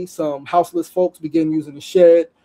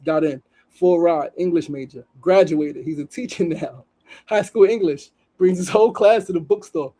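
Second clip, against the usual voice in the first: raised, storytelling read of a post; reading a post aloud. Acted. Host reading an Instagram story to viewers, earnest read.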